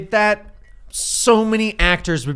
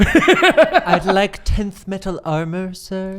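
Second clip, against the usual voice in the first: slow, laughing polite request; polite shopper; much slower than usual. Retold or imitated. Player ordering armor from the World Forger: slow polite laughing ask. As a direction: ask the smith sweetly. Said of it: "You said that in the campaign".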